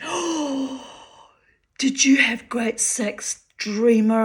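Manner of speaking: high friend voice dropping to a whisper; hushed gossip. Retold or imitated. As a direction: lean in and whisper the juicy question. Friend asks a juicy question.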